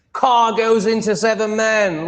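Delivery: lightly hammed-up news voice; mock headline read. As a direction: belt it like a sensational headline. Reading a newspaper headline aloud.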